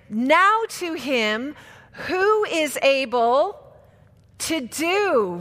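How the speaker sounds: slow, drawn out, word by word; staccato. Shown as a demonstration. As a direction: build it slowly to the crowd. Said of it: "one word at a time".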